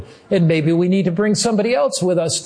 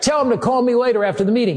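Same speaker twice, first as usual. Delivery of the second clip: quick, higher call back up; retold yell; 5 semitones higher, much faster than usual. Pastor yells back to the producer in the balcony, fast high call. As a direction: fire it off, calling back upward. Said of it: "I yelled back".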